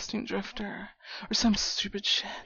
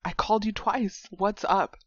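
irritated, punchy calling-out; annoyed; 4 dB louder than usual. Acted. Friend walking in on late buddy, annoyed. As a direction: scold a friend who has gone missing. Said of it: "I know I sounded mad when I came in".

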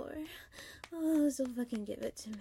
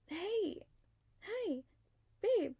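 higher, bright greeting to cover up; mock cheerful hello; 7 semitones higher, much slower than usual. Wife greeting husband on the phone, lightly faking cheer. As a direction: fake it sweet on the phone. Answering her husband's call.

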